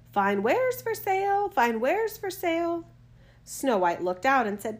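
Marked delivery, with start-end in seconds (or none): 0.1-2.9 high, loud hawker's cry; peddler woman calling out. A narrator's reading. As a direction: call out your wares to the house. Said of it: "and cried".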